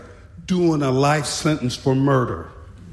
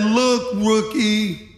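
imitated know-it-all veteran, pitched higher; condescending; 5 semitones higher than usual. Trainer explains a shortcut to a rookie, condescendingly. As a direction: talk down to the new guy. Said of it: "He was so condescending".

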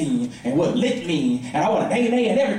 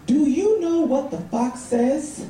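slow, higher little-niece voice, lightly done; niece's question; 6 semitones higher, much slower than usual. Retold or imitated. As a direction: lightly imitate a child asking uncle. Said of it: "And she says".

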